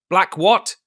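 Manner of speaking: high, loud questioning what; startled question. A narrator's reading. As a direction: jolt up on what. Silver startled.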